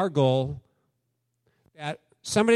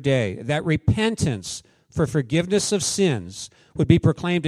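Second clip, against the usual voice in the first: louder, measured Bible reading; scripture reading; 4 dB louder than usual. Acted. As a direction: proclaim the passage to the church. Reads Luke twenty-four aloud.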